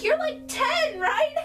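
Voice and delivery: imitating the man. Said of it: "He's like, he's like".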